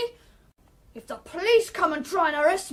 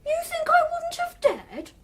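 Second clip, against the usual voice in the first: mocking taunt; 9 semitones higher than usual. Boy taunting the woman who questions him.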